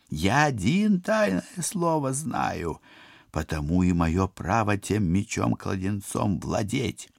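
high, slow boastful villain. Acted. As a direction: boast like an evil sorcerer. Koshchei boasts of secret.

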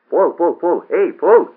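high, loud, repeated name call; shout across table. A narrator's reading. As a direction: shout to get someone's attention. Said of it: "крикнул ему Бейер через стол".

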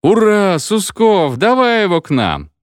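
loud, high-pitched hurrah; rousing cheer from a crowd; cheering shout. A narrator's reading. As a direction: cheer and call him over. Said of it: "и закричали".

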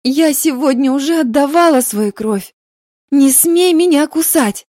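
high, loud furious outburst; hissed. Acted. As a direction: spit it out at him, shouting. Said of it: "Мария прошипела".

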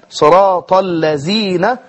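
الذين with a ز, slowly; نطق الذال زايا; Zay for Dhal. Shown as a demonstration. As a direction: say الذين as زين. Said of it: "فإذا نطقها زايا".

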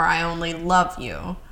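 love stressed with a rise; I only love you with the weight on love. Shown as a demonstration. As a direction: lean on the word love. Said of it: "what word you put the inflection on".

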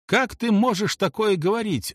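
understated narrated shout; mild outraged cry. A narrator's reading. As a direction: cry out in protest. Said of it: "закричала Лили".

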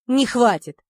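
a loud gruff bark. A narrator's reading. Gnome cutting Sanya off, barking. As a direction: snap it back hard. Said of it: "рявкнул гном".

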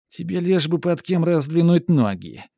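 high, loud cackling witch; creaky witch voice. Acted. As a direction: spit it like a nasty hag. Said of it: "с голосом скрипучим, как старое сухое дерево". (скрипучий голос ведьмы)

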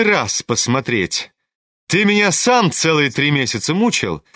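a proud, reckless heroine taunting Ganya; defiant, mocking challenge to the suitor; Nastasya Filippovna. Nastasya's long speech. (героиня дерзко бросает вызов)

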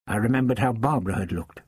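ordinary talk, nothing marked

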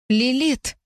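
high, far-off ghostly cry of the name; ghostly call. A narrator's reading. Ghost calling the heroine from afar, high and eerie. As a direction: call out like a desperate spirit.

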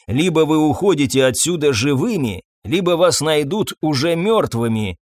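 ordinary delivery

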